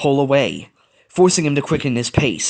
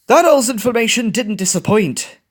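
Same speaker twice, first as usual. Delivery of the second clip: surprised; 10 semitones higher, 4 dB louder than usual. A narrator's reading. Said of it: "Bolt said, surprised".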